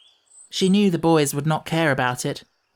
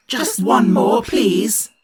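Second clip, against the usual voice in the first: begging shout; 3 semitones higher, 5 dB louder, much slower than usual. Acted. Children begging for more.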